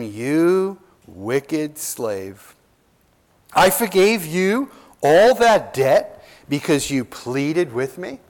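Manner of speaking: "You wicked slave" very slow and weighty; lightly voiced angry king rebuking his slave; stern king. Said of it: "and his lord said to him".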